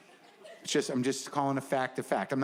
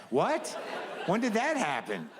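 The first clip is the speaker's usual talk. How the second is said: astonished; 6 semitones higher, slower than usual. Retold or imitated. Baffled self-dialogue.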